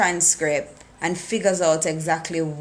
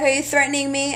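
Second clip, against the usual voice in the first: high mock retort; 8 semitones higher, 3 dB louder, faster than usual. Character retorts to Kira's mother.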